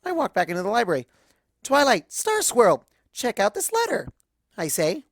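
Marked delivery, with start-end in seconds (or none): 1.6-4.1 higher, louder and drawn out; calling out. Acted. Pony calling friends across the library, loud drawn-out call.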